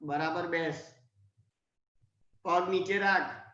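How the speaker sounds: low, restrained warning from mum; mother's low-voiced scolding; stern mother. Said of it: "પછી mummy આમ આંખો કાઢે".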